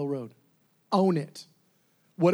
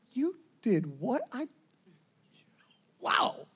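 astonished; 4 semitones higher, slower than usual. Retold or imitated. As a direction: play being stunned into halting words. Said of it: "I just see him astonished again".

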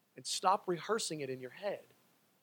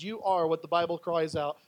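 ordinary delivery

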